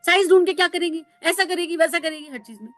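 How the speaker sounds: put-on old vendor scolding the speaker, loud and bitter; harsh retort. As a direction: snap back at the fussy buyer. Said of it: "पलटकर उल्टा बोल रहे थे".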